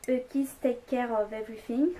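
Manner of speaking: English read with a French accent; halting English in a French accent. Real, not acted. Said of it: "Super mon accent anglais".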